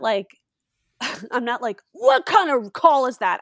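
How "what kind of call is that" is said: loud, drawn-out, higher heckle; mock sideline yell. Parent heckling the referee from the field, mock yelling. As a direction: holler it slowly like an indignant sports parent. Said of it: "I'm, like, yelling".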